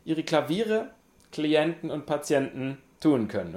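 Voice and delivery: loud, fast sales pitch; ad announcer. Pretend. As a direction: rattle it off like an ad. Continuing the ad parody.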